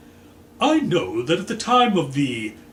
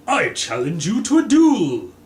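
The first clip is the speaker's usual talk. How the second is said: loud challenge; 6 semitones higher, 8 dB louder than usual. Acted. Colonel challenges Green to duel.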